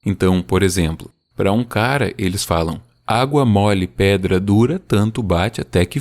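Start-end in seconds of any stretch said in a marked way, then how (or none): 3.1-6.0 "Água mole, pedra dura" read with a steady rhythm; sing-song metric reading; rhythmic proverb. Shown as a demonstration. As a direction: chant the proverb's metre. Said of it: "tem métrica e tem rima".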